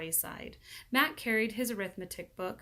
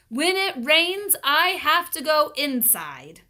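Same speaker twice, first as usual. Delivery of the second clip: high, loud, slow whiny complaint; complaining; 8 semitones higher, 13 dB louder, slower than usual. A narrator's reading. Myron complaining to the hobo, whiny high. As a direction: whine about it like a kid. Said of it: "complained Myron".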